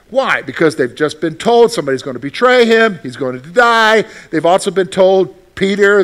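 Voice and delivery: preaching. Acted. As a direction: build the energy of the sermon. Preaching builds up.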